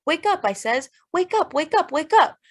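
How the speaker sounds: high, rising cries to rouse him; urgent shouting. Acted. Shaking Henry, trying to wake him.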